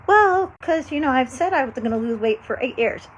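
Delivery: mock whiny excuse maker; excuse-making voice. Voicing an excuse-making person.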